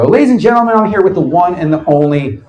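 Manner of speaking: booming mock broadcast welcome; announcer intro. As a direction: sell it like a show opener. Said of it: "I hit record".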